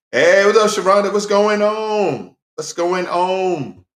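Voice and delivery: excited greeting. Real, not acted. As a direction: call out happily to a friend, slowly. Greeting a friend arriving.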